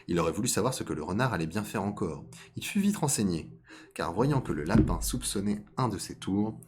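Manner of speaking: measured storytelling read; story narration. A narrator's reading. Storyteller introducing fox and rabbit to listeners, measured narration. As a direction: narrate a fable at an unhurried, even pitch. Reads a fable aloud.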